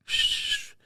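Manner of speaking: hissed "shh" like a noisy nose; imitated whistly nose. Host mimicking annoying noises heard on podcasts, imitated hiss. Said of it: "nothing worse about listening to people".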